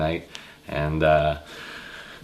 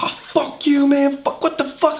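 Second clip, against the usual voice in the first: much higher squealing outrage; mock outraged cursing; slower than usual. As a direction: curse him out in a high put-on voice. Guy cursing at bouncer.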